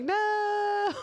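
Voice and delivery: high squeaked no; a squeaky incredulous no; mock flat denial. To friends, mocking the Jersey Shore idea, squeaky no. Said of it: "I'm like".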